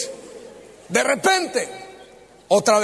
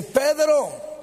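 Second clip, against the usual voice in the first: higher-pitched call of a name; 5 semitones higher than usual. Acted. Jesus calls out to Peter, calling.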